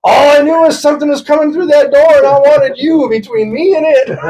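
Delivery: high, frantic self-justifying yell; indignant outburst, played for laughs; mad, acted out. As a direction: imitate a panicked friend defending himself. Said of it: "they were so mad".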